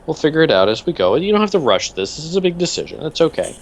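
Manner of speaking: a lightly voiced doctor, soothing; doctor's voice. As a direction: reassure him like a gentle doctor. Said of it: "And he said".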